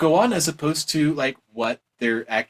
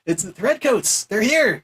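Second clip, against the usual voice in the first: raised, urgent mock alarm; mock screaming; 7 semitones higher, 3 dB louder, slower than usual. Messenger warning that redcoats have arrived, mock screaming. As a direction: call out a pretend warning. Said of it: "screaming says".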